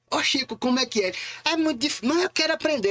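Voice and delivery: high-pitched pestering, acted out; insistent learner's plea, pitched right up; eager pleading. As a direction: re-enact nagging a teacher for a lesson. Retold begging to be taught.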